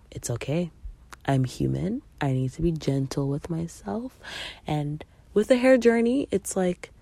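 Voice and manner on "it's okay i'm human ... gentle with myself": gentle self-talk. Shown as a demonstration. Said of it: "come back to yourself and say".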